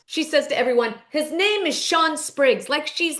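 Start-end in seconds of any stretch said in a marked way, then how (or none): 1.1-2.7 slow, higher-pitched mock announcement; mock breaking-news proclamation. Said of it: "like, breaking news".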